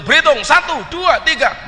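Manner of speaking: high, loud drill count; Kudus counting. Retold or imitated. Preacher mimics a Kudus recruit counting, loud drill count. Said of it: "Kalau orang Kudus berhitung".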